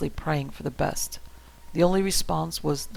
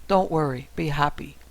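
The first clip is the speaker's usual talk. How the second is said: put-on Russian accent. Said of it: "with a horrible Russian accent".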